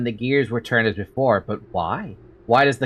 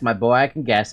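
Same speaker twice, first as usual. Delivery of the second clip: settled repeat. Acted. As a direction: let the repeat sink down. Repeats the reply more settled.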